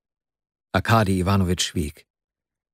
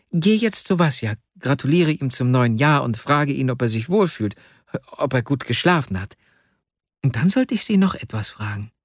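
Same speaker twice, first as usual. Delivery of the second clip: lightly voiced child telling his errand; polite young boy; 3 semitones higher than usual. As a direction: recount it like a little messenger boy. Voices the ten-year-old boy.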